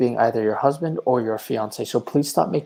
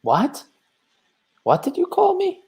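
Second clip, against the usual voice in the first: outraged disbelief. Acted. Visitor outraged at insult.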